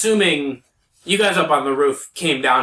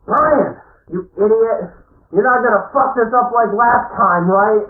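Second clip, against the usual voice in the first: higher, louder scolding guard; gruff scolding; 7 semitones higher, 5 dB louder than usual. Acted. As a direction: berate the rookie hard. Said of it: "a different voice from the other side of the wall say".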